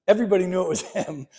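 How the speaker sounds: quick words breaking into a laugh; rushed and chuckling at the open secret. Real, not acted. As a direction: laugh through the end, amused at the obvious. Joking that the secret was obvious.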